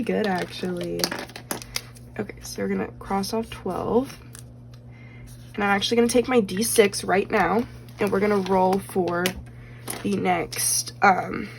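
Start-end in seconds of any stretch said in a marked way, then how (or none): 5.6-11.5 slightly hoarse, voice giving out. Real, not acted. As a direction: speak through a tired, hoarse throat. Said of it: "losing my voice a little bit".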